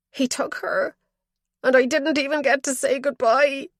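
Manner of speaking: put-on old father confessing in anguish from his bed; grieving old father. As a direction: cry it out as the frail father. Father's voice in story.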